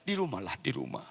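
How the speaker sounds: acted soft, pleading prayer; softly voiced fearful wife; hushed prayer. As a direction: pray quietly, bargaining with God. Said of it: "selalu dia berdoa".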